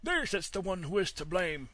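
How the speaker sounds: very high, loud squealing shout; roaring boar. Acted. Boar roaring at the wolf in the tree, high and loud. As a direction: bellow it out in a panic. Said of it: "roaring out".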